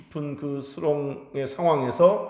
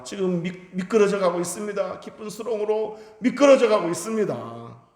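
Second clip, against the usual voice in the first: pleading cry; 7 semitones higher than usual. Retold or imitated. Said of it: "비명을 지르듯 부르짖었을".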